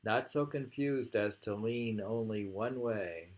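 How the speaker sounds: measured reading, firmer start; poem reading. Acted. Rereading the reeds poem on request, measured.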